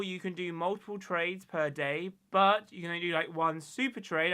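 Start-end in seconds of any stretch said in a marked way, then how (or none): 2.3-4.3 strained, fading voice; worn-out voice after a long day; losing voice. Real, not acted. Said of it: "I'm losing my voice".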